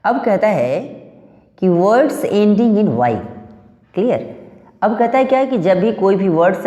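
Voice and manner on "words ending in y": slow, careful dictation of the rule; reading the rule aloud. Shown as a demonstration. Teacher dictating the rule to students, slowly and deliberately. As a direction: spell out the rule word by word for the class.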